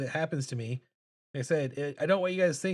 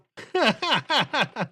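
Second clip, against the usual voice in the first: high, loud burst of laughter; real laugh; 9 semitones higher, 6 dB louder than usual. Real, not acted. Laughs at chat comment.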